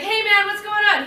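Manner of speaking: high breezy greeting; chirpy, relaxed phone hello; casual greeting. Retold or imitated.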